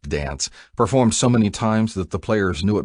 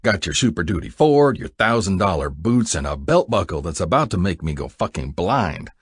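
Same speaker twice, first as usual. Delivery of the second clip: heavy sarcasm; 3 semitones higher, 3 dB louder than usual. Acted. Jack taunts Buck about his boots and buckle, sarcastic. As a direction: sneer at every status symbol. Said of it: "laying on the sarcasm".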